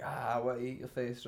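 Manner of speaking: lightly mimicked heavy song lyric; dead heavy band vocal. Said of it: "like, dead heavy".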